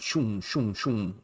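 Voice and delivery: soft, low "shoom" swooshes; imitated whoosh. Shown as a demonstration. Host explains lines on a cyber threat map, softly imitated whooshes. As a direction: voice little attacks zipping past, quietly.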